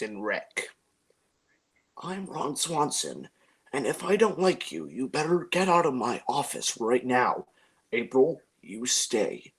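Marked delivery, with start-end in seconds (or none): 2.0-9.5 Ron Swanson impression. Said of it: "here is my impression of, uh, Ron Swanson".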